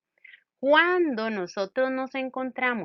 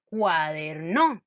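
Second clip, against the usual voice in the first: "cuaderno" wrongly stressed on the last syllable, cuader-NÓ; 3 semitones lower, 4 dB louder, much slower than usual. Shown as a demonstration. Teacher trying a wrong accent for students, cuader-NÓ stressed at the end. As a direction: punch the final NO of "cuaderno". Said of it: "el acento en la no".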